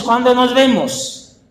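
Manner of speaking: normal talking voice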